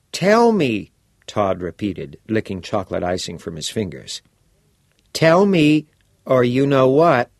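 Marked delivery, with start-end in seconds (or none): 0.1-0.9 put-on bright, curious teenage boy; a keen schoolboy pressing for details; eager boy voice. Todd demanding. 5.1-7.3 put-on bright, curious teenage boy; a keen schoolboy pressing for details; eager boy voice. Todd threatening.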